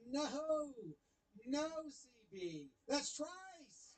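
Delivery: a lightly voiced batter complaining; mock protest. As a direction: whine it like the batter who's been wronged twice. Player voiced protesting again.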